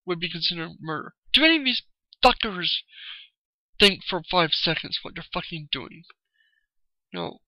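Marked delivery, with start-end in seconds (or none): 1.3-6.0 angry outburst. Real, not acted. Ranting vlogger lashing out at pro-life critics, angry. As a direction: vent real rage at them. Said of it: "I'm just pissed off".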